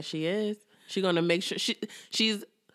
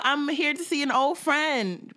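mock sweet voice; 5 semitones higher than usual. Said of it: "acting real like".

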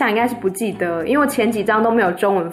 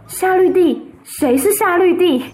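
baffled mother; 8 semitones higher than usual. Acted. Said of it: "阿拉贝尔太太又懵了".

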